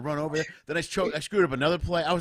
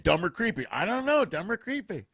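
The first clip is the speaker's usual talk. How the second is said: a touch of hammed-up announcer calling out; mock promo for the comic's live show; 5 dB louder than usual. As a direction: pitch it like an old radio ad. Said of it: "old advertisers for a live show".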